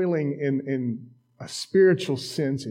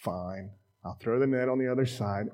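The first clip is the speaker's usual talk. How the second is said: low, soft grudging "fine"; grudging compliance; 3 semitones lower, 4 dB quieter than usual. Acted. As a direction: give in with mild reluctance. Beat-up fisherman gives in.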